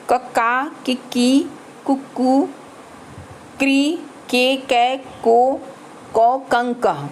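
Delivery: slow syllable drill. Shown as a demonstration. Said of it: "जैसे मात्रा तो सभी में लगी हुई है".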